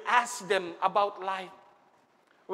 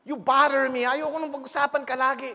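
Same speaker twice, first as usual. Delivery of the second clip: irritated, louder brush-off; annoyed son; 5 semitones higher, 4 dB louder than usual. Retold or imitated. Grown son telling his mother she bothers him, irritated. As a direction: push her away sharply.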